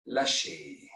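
low, soft "let go"; calming release cue. Real, not acted. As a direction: ease them out of the tension, low and soft.

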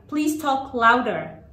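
very slow, drawn-out instruction with falling ends; slow model phrase. Shown as a demonstration. Teacher models a classroom instruction for children, very slowly. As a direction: space out each word for learners.

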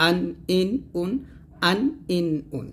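hard throat onset on আন, ইন, উন; firm hamza articulation. Shown as a demonstration. Teacher demonstrates tanween on hamza, starting আন, ইন, উন firmly. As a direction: separate আন, ইন, উন, each started firmly. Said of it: "শক্ত করে".

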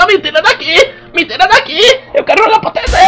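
high squealing crybaby plea; baby crying in the womb. Retold or imitated. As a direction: whine like a trapped baby. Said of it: "chutando a barriga da mãe e falava".

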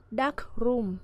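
dark room with DARK stressed; stress on first syllable. Shown as a demonstration. Teacher shows compound noun dark room, stress on dark. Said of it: "trọng âm sẽ rơi vào âm tiết đầu tiên".

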